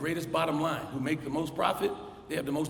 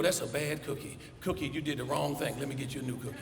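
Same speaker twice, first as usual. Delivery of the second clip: put-on gentle baby talk, getting softer; soothing; 2 semitones lower, 5 dB quieter than usual. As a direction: comfort a child over a broken cookie. Adult comforts toddler on knees.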